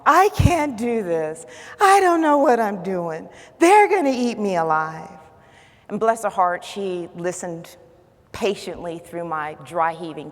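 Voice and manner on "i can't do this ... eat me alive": retold panicky wail, falling away; mock boohooing. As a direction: act out a hammed-up phone meltdown. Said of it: "I just boohooed into that phone".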